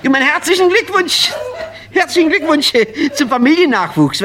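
a friend congratulating the new parents, squeaky and giggling; falsetto congratulation. Acted. Congratulating in silly voice.

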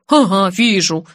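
slow, sceptical drawl; wry chuckle. A narrator's reading. Friend disbelieving she is fine, wryly amused. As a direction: say it with a smirk. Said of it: "усмехнулся Столов".

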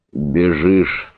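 usual speaking voice

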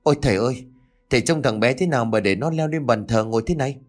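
quick, sharp scolding of father-in-law; daughter-in-law snaps at her father-in-law, fast and sharp; snapping angrily. Acted. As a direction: scold him fast for letting the boy climb. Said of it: "mợ vừa gắt lên".

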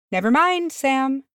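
high-pitched, lilting reassurance; light comforting character voice. A narrator's reading. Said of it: "said Pippin comfortingly".

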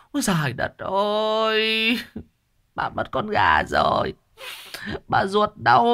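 high, drawn-out wail over the lost chicken; wailing lament. A narrator's reading. Fat neighbour wails for her stolen chicken. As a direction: moan to the heavens. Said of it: "Nghe tiếng mụ tru chéo".

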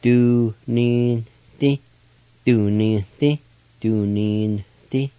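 Do, nin, di with a nasal N slipped in; nasalized N. Shown as a demonstration. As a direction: sound out Do, nin, di, letting the N hum through the nose. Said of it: "You just pronounce the N sound like this".

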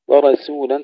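ورسولا with a thin S after heavy R; light sin. Shown as a demonstration. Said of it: "ترقيق السين". (ترقيق السين)

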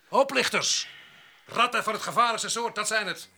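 angry accusation. Real, not acted. Worker accusing rivals in the barracks, angrily. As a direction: denounce them as rats.

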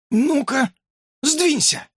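very high squeaky demand; hamster pushing in. A narrator's reading. Hamster elbows to the window, high squeaky order. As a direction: shove your mate aside impatiently. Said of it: "прогудел хомяк".

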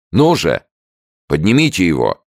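loud, high sharp order. A narrator's reading. Sergeant orders the guards to lift him, loud. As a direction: command the guards. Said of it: "приказал сержант".

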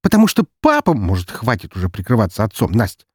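sharp, cutting retort; curt snap. Acted. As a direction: cut her off loudly. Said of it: "отрезал Роман".

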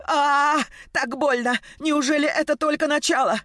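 woman in labour whimpers to her friend; whimpering. Acted. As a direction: whine through the pain. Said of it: "Мила захныкала".

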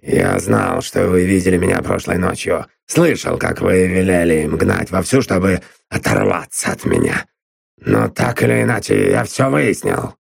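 a hint of a smug gruff man; lightly voiced sneering Drummond. A narrator's reading. Drummond gloats at Constance, lightly voiced and smug. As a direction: gloat that you found her out.

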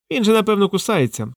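shy away from being bitten; timid. A narrator's reading. Drozd hangs back from the parrot, timid. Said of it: "боязко промовив він".

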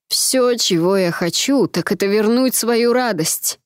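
slow, pleading cry for lost joy; anguished baron. Acted. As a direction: drag it out in grief.

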